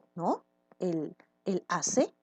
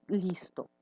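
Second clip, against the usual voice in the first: whisper; 4 dB quieter than usual. Real, not acted. Teacher closes the student voicing.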